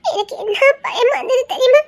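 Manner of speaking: tearful. Acted. She tells him her fear.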